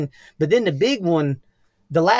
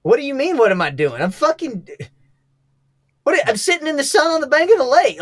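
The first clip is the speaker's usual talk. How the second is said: indignant retort; 9 semitones higher than usual. Retold or imitated. Retelling own indignant reply.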